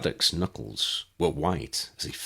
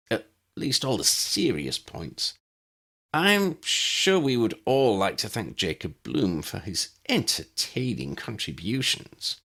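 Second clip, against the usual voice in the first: master of ceremonies; 4 semitones higher than usual. Acted. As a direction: address the room with smug ceremony. Renfield addresses the room.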